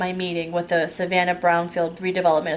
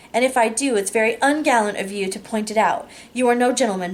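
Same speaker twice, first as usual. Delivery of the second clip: mock indignation; 4 semitones higher than usual. Indignant mock outrage email.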